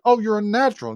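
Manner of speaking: high-pitched, imitated parental praise; delighted parent. Parents praising their little girl's strike, mock delighted. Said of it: "her parents are delighted".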